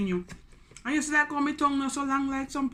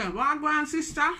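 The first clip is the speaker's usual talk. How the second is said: raised, lilting Jamaican patois; Jamaican greeting; 4 semitones higher than usual. Shown as a demonstration. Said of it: "Jamaican people wanna say".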